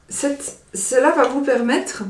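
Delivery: parler avec le hoquet; voix coupée par le hoquet. Real, not acted. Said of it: "Pardon, j'ai le hoquet". (avec le hoquet)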